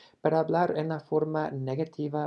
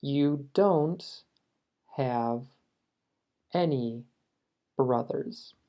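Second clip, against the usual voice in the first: careful model repeat; much slower than usual. Shown as a demonstration. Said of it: "Esa es la versión plural".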